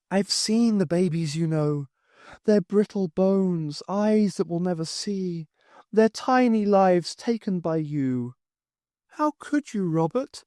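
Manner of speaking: a touch of a ghost's lament; accusing ghostly wife. Acted. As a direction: reproach him as his dead wife. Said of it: "the voice was that of Morag".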